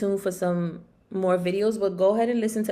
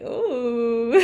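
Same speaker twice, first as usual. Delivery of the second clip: higher, drawn-out self-admiring "ooh"; playful raspy ooh; 4 semitones higher, 4 dB louder than usual. Pretend. Host showing off her new raspy voice, playful ooh. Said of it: "now that I have the raspy voice, I'm like".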